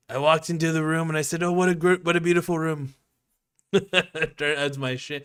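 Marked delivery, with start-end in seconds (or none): 0.1-3.0 a light Trump voice, higher; Shane Gillis Trump impression. Streamer doing a comic's Trump bit, lightly. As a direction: describe the room like Trump. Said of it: "the Shane Gillis impression of Donald Trump".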